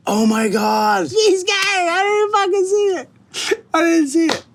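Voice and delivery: mock shock. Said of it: "And I was like".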